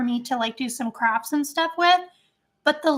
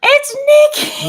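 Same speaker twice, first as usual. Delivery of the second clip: high, bright call of a friend's name; excited greeting; 14 semitones higher, 9 dB louder than usual. Real, not acted. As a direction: squeal the name in delight. Greeting friend joining the stream.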